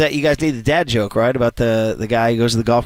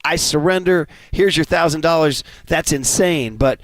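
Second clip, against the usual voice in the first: amazed golfer; 4 semitones higher than usual. Retold or imitated. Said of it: "The guy goes".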